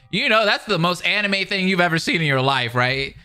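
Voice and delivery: real amused incredulity; incredulous aside. Real, not acted. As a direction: marvel at how absurd it is.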